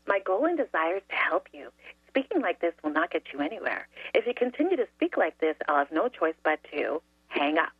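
deliberately sugary, scripted politeness; syrupy sweet. Shown as a demonstration. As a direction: say it sickeningly sweetly but professionally. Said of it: "say it in the most syrupy, sweet voice".

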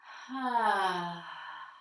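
a full, voiced "ah" sigh on the long exhale; voiced deep sigh. Shown as a demonstration. Teacher shows the class a voiced release, deep audible sigh. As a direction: let the sigh sound out as you release. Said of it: "give some voice to it, like a s-, a deep sigh".

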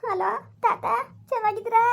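high, weepy hello; tearful greeting. Acted. Granddaughter greeting grandfather by phone, tearful. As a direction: greet through tears. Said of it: "ಅಳ್ಬೇಡ ಮಗಳೇ".

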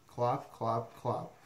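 evenly spaced clop-clop; horse-hoof clops. Acted. Reader imitates horse feet, clopping. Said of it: "He can sound like horse feet".

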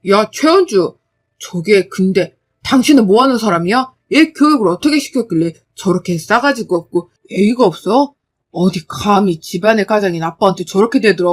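loud, harsh blaming; furious husband. Acted. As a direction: roar at wife about the child. Husband blames wife loudly.

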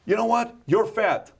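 high, needling jab in a put-on voice; a mocking heckler poking at someone. Host acts out a heckler insulting a candidate, high needling voice. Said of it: "Kinda like this".

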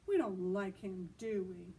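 mock him to the others; snubbing. Giraffe snubbing Dexter.

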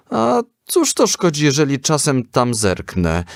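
high-pitched, embarrassed self-defence; mildly sheepish excuse, starting very high; flustered boy. A narrator's reading. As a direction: make a confused, defensive excuse. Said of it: "Henio był zmieszany".

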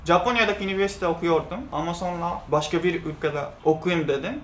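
Japanese accent in Turkish; careful learner's Turkish, Japanese accent; foreigner broken turkish. Real, not acted. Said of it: "Türkçem kötü".

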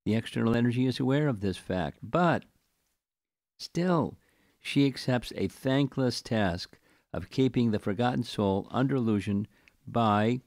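deliberate scripture commentary reading. Acted. Teacher reading the purport to patient listeners, deliberate reading. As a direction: read it out, pausing after each phrase.

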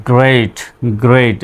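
গ্রেট with an "ay" vowel, not "ee"; এ-কারের উচ্চারণ. Shown as a demonstration. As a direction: give গ্রেট an e sound, each one set apart. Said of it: "একারের মতো উচ্চারিত হয়েছে". (গ্রেট, এ-কারের মতো স্বরে)

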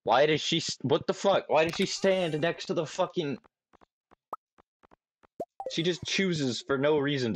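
high baffled disbelief. Real, not acted. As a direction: squeak out your confusion. Baffled at wife in game.

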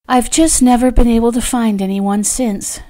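sighing. A narrator's reading. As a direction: say it with a slight sigh. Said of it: "Julia sighed".

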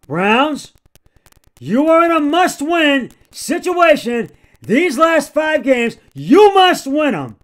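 loud, heated scolding of the team; frustrated yelling. Real, not acted. Fan on his podcast scolding the Browns, frustrated yelling. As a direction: yell it out of pure frustration. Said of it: "I don't mean to be yelling the way that I am".

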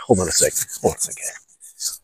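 whispered to himself; muttered. Real, not acted. Fixing his wiggling mic, whispered aside. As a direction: breathe it under his breath.

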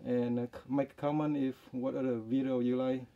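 muffled behind surgical mask; through a face mask. Real, not acted. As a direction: mouth covered by cloth. Seen 4: Surgical mask covers mouth and nose throughout; reference frames unmasked.

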